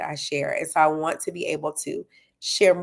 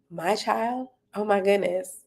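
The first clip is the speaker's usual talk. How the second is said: mock surprise; 3 semitones higher than usual. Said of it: "the surprises where you're like".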